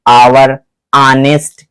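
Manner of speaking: आवर, ऑनेस्ट both begun on vowels; silent H. Shown as a demonstration. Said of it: "यहां से sound उत्पन्न हो रहा है अंदर से".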